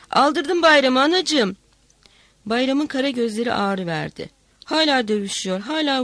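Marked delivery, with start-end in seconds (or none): 0.1-1.6 slow, loud, high lament; wailing cry. A narrator's reading. Hatça lamenting Bayram to her mother, slow loud wail. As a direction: draw the words out in a grieving wail. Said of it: "diye bağırdı".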